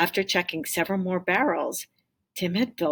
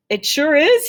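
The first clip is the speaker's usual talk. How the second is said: put-on bright boyish reply; 10 semitones higher, 9 dB louder than usual. Tim answers the Can Man.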